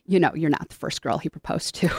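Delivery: softly, with mock sweetness; gentle. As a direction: lean in and say it kindly. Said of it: "gently say".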